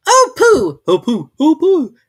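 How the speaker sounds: high, loud, eager calls; excited. Acted. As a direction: call out impatiently all at once. Everybody cries out.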